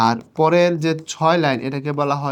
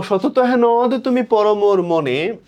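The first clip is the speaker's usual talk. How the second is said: slow, higher-pitched verse reading with নদ drawn out; poem recitation; 5 semitones higher, 4 dB louder, slower than usual. Shown as a demonstration. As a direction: recite it high and unhurried. কবিতার line আবৃত্তি. (উঁচু সুরে ধীরে আবৃত্তি)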